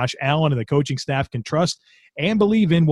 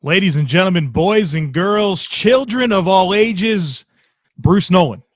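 slow, higher ringmaster call; grand entrance announcement; 4 semitones higher than usual. Pretend. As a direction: announce him like a circus ringmaster. Introducing guest like ringmaster.

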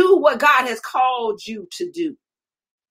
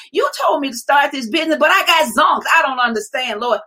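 frustrated outcry. Acted. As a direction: let the frustration burst out. Believer complaining to God, shouting.

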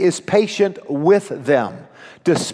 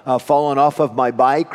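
usual speaking voice

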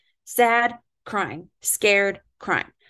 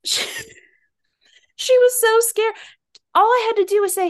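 mock sympathy; 13 semitones higher, 4 dB louder than usual. Real, not acted. Mocking her past self.

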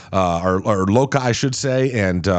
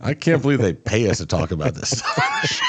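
laughing shout; 3 semitones higher than usual. Real, not acted. Laughing outburst at the ads.

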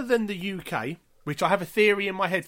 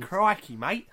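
mock Australian accent; much slower than usual. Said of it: "I wanna see an Australian Walking Dead".

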